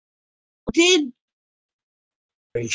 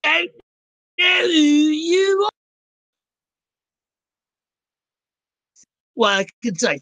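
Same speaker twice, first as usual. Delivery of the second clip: put-on Aussie accent. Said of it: "I don't know why I'm doing this accent".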